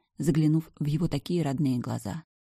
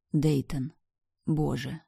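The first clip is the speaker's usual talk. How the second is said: ordinary delivery, nothing marked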